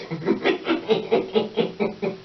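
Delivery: long rapid-fire airy giggle; real laugh at your own line; wheezy giggle. Real, not acted.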